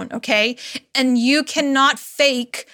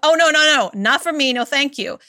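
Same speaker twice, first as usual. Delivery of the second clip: body's flat refusal; 2 semitones higher than usual. Retold or imitated. Body turning down a strategy, playful refusal. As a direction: laugh then wave it off, no no no. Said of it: "And my body is like".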